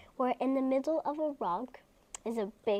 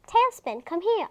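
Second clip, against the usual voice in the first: stern command; 6 semitones higher, 5 dB louder than usual. Acted. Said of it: "I say".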